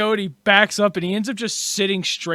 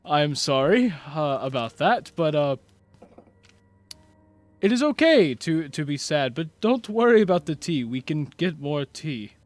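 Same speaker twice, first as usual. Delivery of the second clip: sheepish comforting; 4 semitones lower than usual. Acted. Marquise soothes after shouting.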